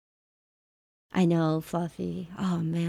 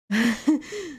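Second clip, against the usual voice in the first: creepy laugh; 5 semitones higher than usual. Pretend. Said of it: "I wonder if I could sound like them".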